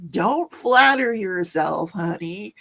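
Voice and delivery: slow, drawn-out retort, dropping off on honey; mock put-down. Witness putting Lori in her place, slow put-down. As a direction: imitate a witness slapping down a question, slowly.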